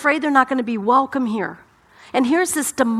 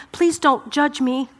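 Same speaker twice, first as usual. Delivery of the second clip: mild pleading; 3 semitones higher than usual. Acted. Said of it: "they think".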